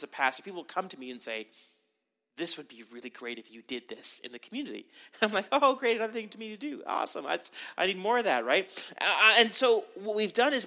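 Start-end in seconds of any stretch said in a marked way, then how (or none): 2.4-4.9 retold suggestion, lower and much softer; soft imitated request. Church members suggesting a task to their pastor, softly imitated. 5.5-8.4 lightly sarcastic retold gratitude; mock enthusiasm. Pastor reacting to another request, mock enthusiasm. Mock reply to one more task.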